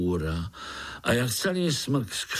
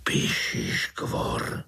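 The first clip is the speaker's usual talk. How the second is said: hushed, slow fearful whisper; much slower than usual. Acted. Uncle whispering the earwig's name in fear, whispered. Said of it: "zašeptal strýček".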